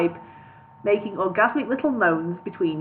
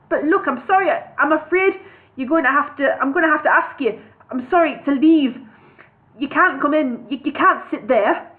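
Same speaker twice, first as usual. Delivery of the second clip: flustered hobbit; 5 semitones higher, 4 dB louder than usual. Acted. Bingo flustered asking to leave.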